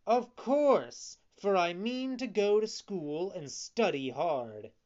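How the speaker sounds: high, loud, emphatic assurance; eager puppet. A narrator's reading. Puppet vowing to go to school, eager. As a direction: answer with keen certainty. Pinocchio eagerly affirms plan.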